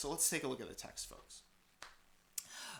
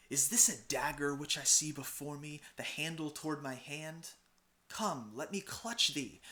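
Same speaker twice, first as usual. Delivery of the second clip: Macbeth; 3 semitones higher, 5 dB louder than usual. Acted. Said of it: "let's give it a shot".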